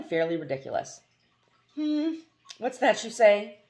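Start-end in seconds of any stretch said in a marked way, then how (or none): 1.7-3.6 high, sharp annoyed demand; peevish prince snapping; irritable. Acted. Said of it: "irritably demanded".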